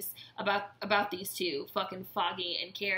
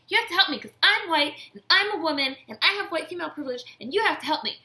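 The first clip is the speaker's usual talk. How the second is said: shrieking entitled plea; mocking Karen; 7 dB louder than usual. Karen demanding Ben help her, shrill mocking whine.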